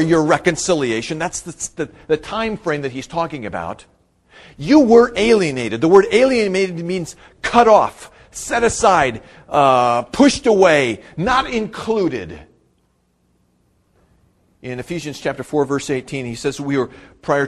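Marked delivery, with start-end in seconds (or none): 4.6-12.4 loud, raised-pitch preacher's delivery; emphatic preaching. Real, not acted. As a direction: drive each synonym home, loudly. Preaches at full force.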